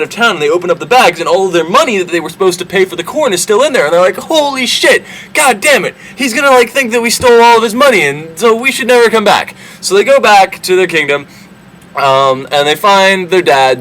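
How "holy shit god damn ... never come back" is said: high, panicky squeal, played for laughs; a hammed-up freakout in a much higher voice; mock panic. Brothers finding their money back in the sacks, squealing in mock panic.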